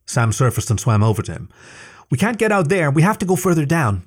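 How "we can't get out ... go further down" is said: calling out. A narrator's reading. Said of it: "she called at his back".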